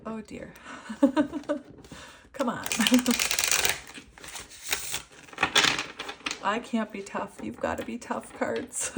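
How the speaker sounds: words squeezed between long breathy laughs; real teary fit of giggles; helpless laughing. Real, not acted. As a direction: try to talk, keep cracking up. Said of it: "But I'm laughing".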